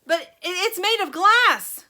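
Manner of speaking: loud, high panicky stammer; stammering shout. A narrator's reading. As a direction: sputter in panic. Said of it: "Grandpa Joe shouted".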